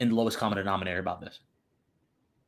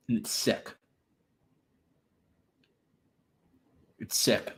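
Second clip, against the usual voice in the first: whispered disgust; 5 dB quieter than usual. Real, not acted. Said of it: "disgusted whisper".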